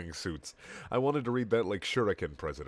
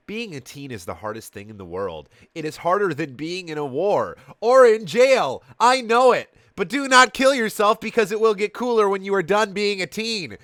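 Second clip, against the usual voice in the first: higher, louder, building to a rant; passionate lecture; 11 semitones higher, 11 dB louder than usual. A narrator's reading. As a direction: preach it harder and harder. Mom's rant to the teens.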